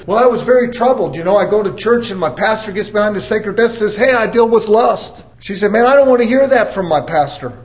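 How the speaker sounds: a hint of a fretful woman on the phone; caller's voice. Woman calling her counselor, lightly voiced and upset. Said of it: "I had a lady call me".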